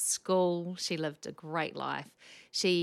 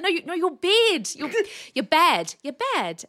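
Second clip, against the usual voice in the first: higher, louder flustered laughing; laughing clarification; 12 semitones higher, 11 dB louder than usual. Retold or imitated. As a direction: giggle while correcting her.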